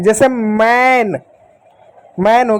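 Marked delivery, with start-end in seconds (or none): 0.3-1.2 "मैन" with a long, open ai; drawn-out ai vowel. Shown as a demonstration. Teacher showing A read as ai, "मैन" drawn out. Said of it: "ए को ऐ भी पढ़ते हैं".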